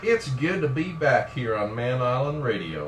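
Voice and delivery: lightly hammed-up country drawl; slow country-drawl catchphrase. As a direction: open the show in a country drawl. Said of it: "why we're talking like this".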